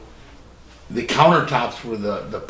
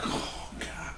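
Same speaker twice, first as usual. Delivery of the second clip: breathy stunned whisper, barely voiced; whispered dismay; 16 dB quieter than usual. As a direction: let it out as a shocked whisper under your breath. Countertop buckles under him.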